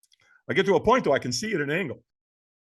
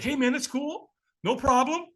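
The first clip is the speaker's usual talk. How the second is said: lightly imitated easygoing reassurance, pitched up; casual, high-pitched "no worries"; soothing reassurance; 8 semitones higher than usual. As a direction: placate a nervous stranger in a higher voice. Stranger placates the reluctant man.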